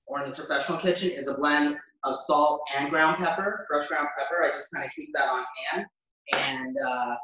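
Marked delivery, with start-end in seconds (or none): 4.4-5.9 whispered aside. Real, not acted. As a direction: drop to a whisper, just between us. Aside while cooking, unvoiced.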